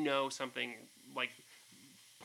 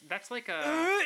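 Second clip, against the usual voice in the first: gag sound; 12 semitones higher, 7 dB louder, much slower than usual. Shown as a demonstration. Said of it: "No, that's yours".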